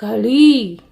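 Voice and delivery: घड़ी with the ee stretched and falling; long ee ending. Shown as a demonstration. Teacher repeats what we say, long final ee. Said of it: "क्या बोलते हैं?".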